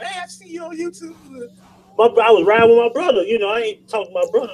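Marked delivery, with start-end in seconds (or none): 0.0-1.2 star-struck fan. Retold or imitated. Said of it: "I might be at Walmart".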